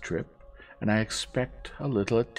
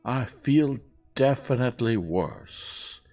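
high, loud, drawn-out grumble; snappish old lady; 8 semitones higher, 9 dB louder, slower than usual. A narrator's reading. Old lady telling her nurse she feels worse, snappish. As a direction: complain imperiously and slowly. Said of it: "she snapped".

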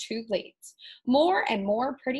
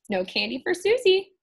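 witch taunt; 8 semitones higher, 5 dB louder than usual. Acted.

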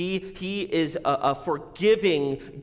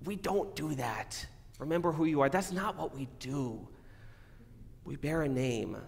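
gentle inner voice; 7 dB quieter than usual. Retold or imitated. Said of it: "hear that voice in your head".

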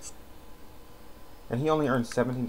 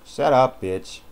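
shut up; 5 semitones higher, 8 dB louder, much slower than usual. Real, not acted. Snapping at the game character.

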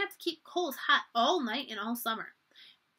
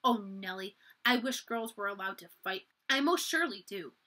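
through clenched teeth. Acted. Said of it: "Samantha said through clenched teeth".

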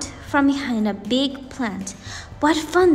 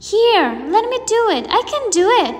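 put-on quick, higher, louder eager child; eager boy; 7 semitones higher, 4 dB louder, much faster than usual. A narrator's reading. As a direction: jump in like an excited little boy. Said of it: "the boy eagerly said".

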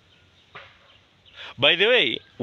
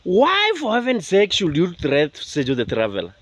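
exasperated appeal; 3 semitones higher than usual. Real, not acted. Challenging those who threaten him.

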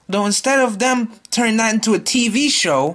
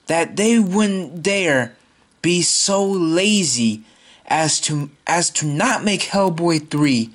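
slow, restrained fury; holding back a scream; shaking with anger; slower than usual. Real, not acted. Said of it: "I'm trying not to scream right now".

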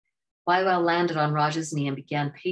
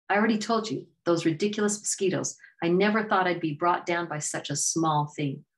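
frustrated Raja; 3 semitones higher than usual. Acted. Raja snaps at Waiwau, lightly voiced exasperation. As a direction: snap back at the pesky guide.

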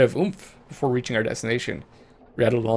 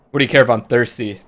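louder, challenging retort; demanding; 6 dB louder than usual. Acted. Bandit answering the traveler's offer of water, demanding and louder. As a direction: throw the question back as a demand. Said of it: "demanded the figure".

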